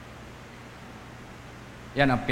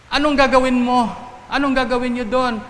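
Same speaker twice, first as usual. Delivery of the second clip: high, loud parental grilling; acted maternal cross-examination, pitched up; questioning mother; 11 semitones higher, 5 dB louder than usual. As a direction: interrogate the child like an insistent parent. Mother interrogating child about outing.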